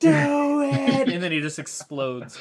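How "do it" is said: put-on screaming vigilante voice, higher and louder. Imagining a character's super move as just screaming: imitating Rorschach screaming. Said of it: "his super move should be just him screaming".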